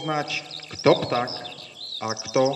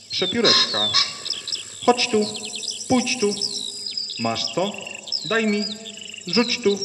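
lapwing calling; 3 semitones higher, faster than usual. Acted. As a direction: shout it out like a lapwing. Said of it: "Czajka woła".

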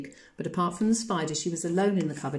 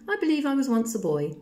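put-on ghost child, remembering; 7 semitones higher, 4 dB louder than usual. A narrator's reading.

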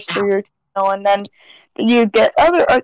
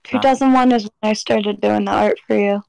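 nodding off; 2 semitones lower than usual. Real, not acted. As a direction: talk like you're half asleep. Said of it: "Sorry, I'm half asleep".

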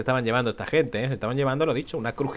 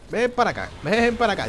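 high taunt; 7 semitones higher than usual. Real, not acted. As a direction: dare the enemy to come. Taunting enemy mid-fight.

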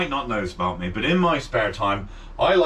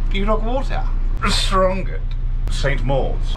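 put-on plummy, louder posh Cornish accent; 7 semitones higher, 5 dB louder than usual. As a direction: announce place names, posh Cornish. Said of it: "posh Cornish voices".

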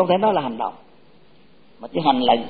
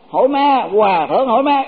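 imitating the monk's question; 4 semitones higher, 3 dB louder than usual. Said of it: "Tức là hỏi là tôi nói vậy mà hòa thượng có hiểu không".

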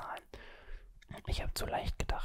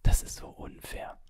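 louder, indignant whisper; frustrated whisper; 9 dB louder than usual. Real, not acted. Complaining to viewers the game cheated, frustrated whisper. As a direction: protest the unfairness in a forceful whisper. Frustrated again after lost point.

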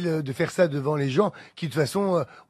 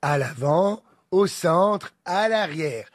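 flight safety announcement. Shown as a demonstration. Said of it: "Vas-y, je te suis ... Fais-le".

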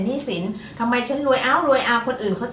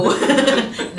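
loud, high giggling laugh; real burst of laughter; 5 semitones higher, 6 dB louder than usual. Real, not acted. Host laughing after a rude slip of the tongue, loud laugh.

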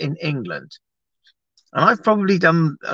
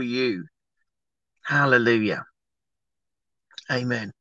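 live prayer. Acted. Pastor praying over Sarah for her return to work, earnest prayer.

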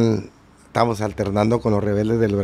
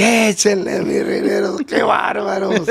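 high, lively grito over the music; high, laughing call of qué bárbaros; excited shout-out; 9 semitones higher, slower than usual. Retold or imitated. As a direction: fire up the band mid-song. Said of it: "que se me sale del".

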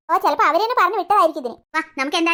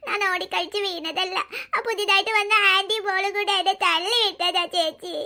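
slow sobbing complaint; slower than usual. Acted. Hurt boy complains to sisters.

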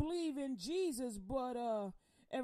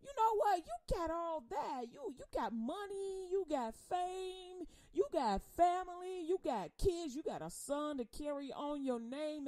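higher people voice; 5 semitones higher than usual. Acted. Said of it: "people keep saying".

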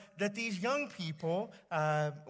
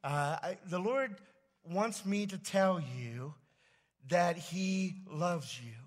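gentle, slow rehearsed address; slower than usual. Pretend. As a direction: say it slowly and kindly, like rehearsing. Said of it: "I'm gonna say".

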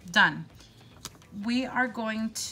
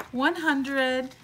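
higher and louder with real excitement; excited recount; 4 semitones higher, 5 dB louder than usual. Real, not acted. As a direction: recount the bills thrilled. Recounting cash in disbelief.

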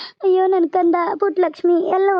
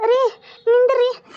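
tearful plea; 6 semitones higher, slower than usual. Acted. Wife begs husband to stop.

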